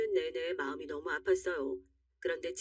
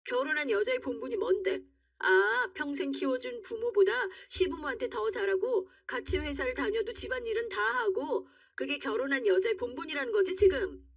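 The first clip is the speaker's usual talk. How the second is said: higher-pitched, incredulous arguing; indignant challenge; 4 semitones higher than usual. Acted. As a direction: throw his demand back at him. Wife challenges husband's demand.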